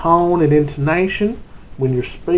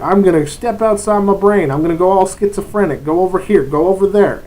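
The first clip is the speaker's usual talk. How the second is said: hyped game master; 5 semitones higher, 4 dB louder than usual. Retold or imitated. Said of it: "sitting there at the end of the table going".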